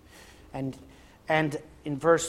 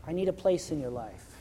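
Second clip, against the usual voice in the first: the Lord's soft call; 2 semitones lower, 11 dB quieter than usual. Acted. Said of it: "the Lord is constantly knocking".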